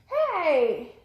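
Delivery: loud, high "hey" with falling pitch; real shout to stop pets; sharp call-out. Real, not acted. Vlogger interrupts herself over fighting kitty cats, scolding shout.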